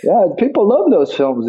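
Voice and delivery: Cockney accent, lightly put on; Jason Statham. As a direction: imitate a Cockney co-star. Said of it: "you know, Cockney".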